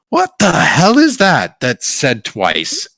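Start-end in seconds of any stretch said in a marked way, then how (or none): 0.1-1.6 slow alarmed cry; surprised guard; startled guards. Acted. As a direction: guards spin round in shock. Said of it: "they're like".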